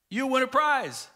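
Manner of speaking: imitated excited class announcement; emphatic promise. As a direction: dangle the prize with relish. Repeats teacher's promise with emphasis.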